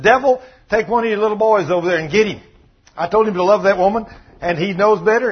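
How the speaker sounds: loud, emphatic fatherly complaint; God as exasperated father. Retold or imitated. God orders devil to discipline son, exasperated father. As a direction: lay down the law about a son, acting it out.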